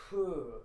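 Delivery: breathy puff instead of "who"; barely-formed who. Retold or imitated. Retelling the guy's coffee shop reply, barely-formed breathy who. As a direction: let "who" escape as mere breath. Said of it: "He doesn't even say who".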